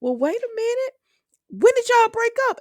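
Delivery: high, squeaky disbelieving quote; imitating a startled friend; mock surprise. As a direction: pitch way up like you just caught someone out. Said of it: "So he like".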